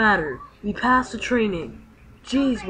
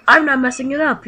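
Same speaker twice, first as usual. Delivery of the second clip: louder, defensive snap; indignant protest; 3 semitones higher, 6 dB louder than usual. Acted. Kid denying he messed up, loud and defensive. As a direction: push back hard on the blame. Arguing over messing up fusion.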